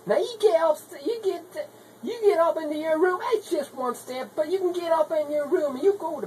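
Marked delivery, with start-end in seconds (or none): 0.1-3.2 put-on higher, firm order to the kids; mother ordering the children to bed, raised and stern; scolding mother. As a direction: send the kids off to bed, sharp.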